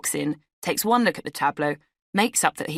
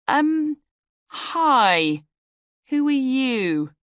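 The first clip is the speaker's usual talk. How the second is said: startled question; 9 semitones higher, 4 dB louder, much slower than usual. A narrator's reading. Confronting stranger in kitchen.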